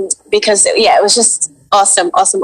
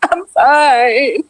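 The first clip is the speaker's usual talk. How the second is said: higher, mock-nervous answer; nervous reply; 4 semitones higher than usual. Actor retelling her nervous answer at the callback, nervously. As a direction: re-enact nerves with a lifted pitch. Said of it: "I was so nervous".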